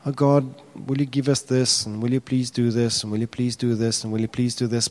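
a touch of timid pleading; mock timid prayer. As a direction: imitate a weak begging prayer. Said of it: "we pray prayers like".

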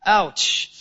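reacting to the Spirit's call to repent, hushed and pained; pained sigh. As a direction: wince at the thought. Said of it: "It's like".

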